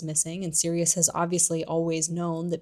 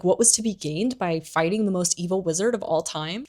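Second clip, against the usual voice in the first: incredulous retort. Retold or imitated. Accusers answer the traitor's excuse, incredulous. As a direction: question thrown back in a near-natural voice. Accusers throw his question back.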